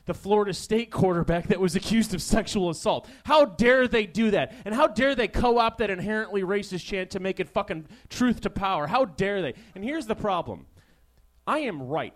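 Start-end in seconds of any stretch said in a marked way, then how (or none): 0.1-9.5 hammed-up indignant pundit, rising on each how dare; mock outrage. Comic mocking ESPN's scandalized coverage, hammed-up outrage. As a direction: play a pompous sports anchor clutching pearls. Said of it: "the big story was like".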